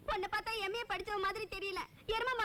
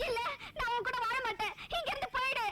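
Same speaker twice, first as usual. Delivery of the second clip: indignant outburst, voice climbing; angry rejection; 3 semitones higher than usual. Acted. Bride throwing out the groom who tricked her, angry. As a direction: send the cheat packing, voice rising.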